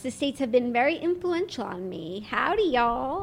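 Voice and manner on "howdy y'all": mock Texan howdy. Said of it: "losing your British accent".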